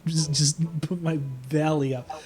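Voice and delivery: hammed-up pampered rich woman; mock-swoon, ending slow and soft; a lightly voiced spoiled noblewoman, fading out.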